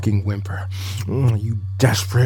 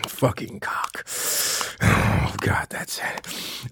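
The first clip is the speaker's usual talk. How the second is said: slow unvoiced whisper, much softer; 8 dB quieter, slower than usual. Slow whispered approval to her partner. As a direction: draw it out in a hush.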